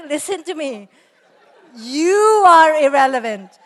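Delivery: loud, slow, drawn-out declaration; emphatic put-down. Retold or imitated. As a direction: imitate a teen laying down the law. Mimics daughter putting her down.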